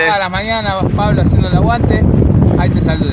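loud over the wind; shouting over wind. Real, not acted. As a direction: shout the greeting over gusts. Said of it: "está terrible el viento".

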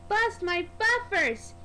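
slow, startled exclaim; a touch of alarm at the spilled pipes; surprised. Acted. Pipes topple over the tracks.

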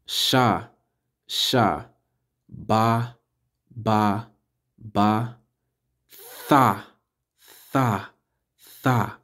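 Sha, Ba, Tha each said alone with pauses between; slow class drill of Sha Ba Tha; syllable drill. Shown as a demonstration.

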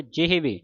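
ਜਿਹਵੇ as je-he-ve, h audible; h sound pronounced. Shown as a demonstration. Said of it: "ਜਿਹਵੇ ਹਾਹੇ ਦੀ ਆਵਾਜ਼ ਉਚਾਰਨ ਕਰਨੀ". (ਜਿਹਵੇ, ਹਾਹੇ ਦੀ ਆਵਾਜ਼ ਨਾਲ)

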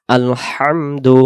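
আলহামদু drawn out slowly; slow recitation. Shown as a demonstration. Teacher demonstrating recitation for students, slow and drawn out. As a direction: stretch আলহামদু slowly, syllable by syllable. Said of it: "উচ্চারণ হবে".

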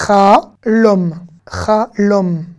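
"chalom" slowly, a gap between its syllables. Shown as a demonstration. Teacher decoding the Hebrew word for dream, syllable by syllable. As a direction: split "chalom" into cha, then lom. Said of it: "on va faire consonne plus voyelle".

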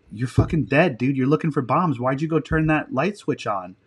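lightly acted scolding of a trainee; hard-on-you instructor. Instructor scolding trainee over a light switch, mildly harsh. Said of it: "like, really being hard on you".

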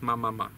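"ma, ma, ma" hummed through the nose with closed lips; nasal on the lips. Shown as a demonstration. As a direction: babble "ma, ma, ma" like a child. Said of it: "nosówka na ustach". (nosowe "ma, ma, ma" jak dziecko)

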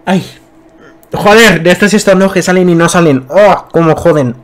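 strained voice, sneeze won't come; holding back a sneeze. Real, not acted. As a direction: talk through a stuck sneeze. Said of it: "Ay, voy a estornudar".

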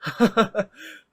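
light chuckle down the phone; a small amused laugh; soft laugh. A narrator's reading. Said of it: "หัวเราะออกมาเบาๆ".

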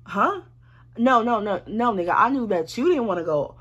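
retold exasperated no no no; mock indignant. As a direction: snap back at him like it's ridiculous. Arguing back at Chris.

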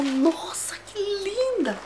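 very high, slow swooning; retold swooning over a handbag; gushing awe. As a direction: melt over the bag, drawing it out. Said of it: "fiquei louca".

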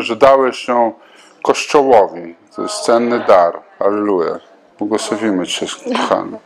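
fervent spoken prayer, steady and earnest; spontaneous prayer. Acted. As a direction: pray aloud over her like a pastor. Pastor prays over a woman.

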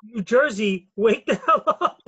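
mock calling-out.

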